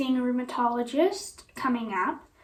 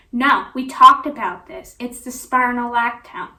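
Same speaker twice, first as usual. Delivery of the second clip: mock raised voice, louder on the first words; 7 dB louder than usual. Doctor overruling her patient, imitated raised voice. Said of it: "she raised her voice at me and said".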